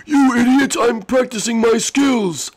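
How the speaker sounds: high, loud snappy little figure; shrill toy-figure voice; high squeaky character voice. Acted. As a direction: squeak out an insult. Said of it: "This idiot let him out".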